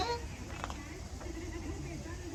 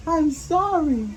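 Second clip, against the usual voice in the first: slow, higher-pitched mild apology; sorry; 5 semitones higher than usual. Acted. David apologizing in the story, mildly sorry. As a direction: draw out a child's apology. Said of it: "David looks so sorry".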